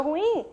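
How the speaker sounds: "ruim" in two syllables, ru-IM, stressed on the last; U and I separated. Shown as a demonstration. Teacher showing students a hiatus, "ruim" pronounced ru-IM. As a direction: say "ruim" with the U split from the I. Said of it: "eu separo o U do I".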